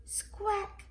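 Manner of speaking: very high parrot squawk. A narrator's reading. Polly repeats the shopping list, squawking. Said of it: "Polly repeats".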